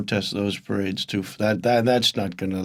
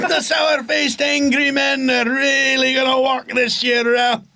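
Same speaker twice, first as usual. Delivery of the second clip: monster truck ad; 13 semitones higher than usual. Pretend. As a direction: pump it up like a truck rally promo. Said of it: "like, a monster truck advert for it".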